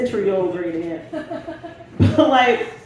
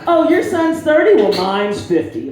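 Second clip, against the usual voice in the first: put-on old lady, voice dropped; 5 semitones higher, 5 dB louder, slower than usual. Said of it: "she drops her voice and everything".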